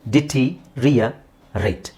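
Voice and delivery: slow ಡಿಟೀರಿಯರೇಟ್ in three chunks; teacher's slow ಡಿಟೀರಿಯರೇಟ್ with pauses; broken into chunks. Shown as a demonstration. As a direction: break it up ditee - riya - rate. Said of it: "ಇದನ್ನ ಹೇಗೆ ಹೇಳೋದು".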